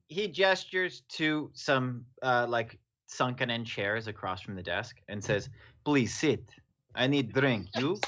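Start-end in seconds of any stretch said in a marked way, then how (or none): 5.9-8.0 put-on Russian accent. Narrating a tabletop scene, voicing a character in a Russian accent.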